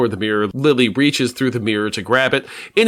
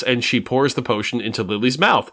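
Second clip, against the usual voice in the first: normal talking voice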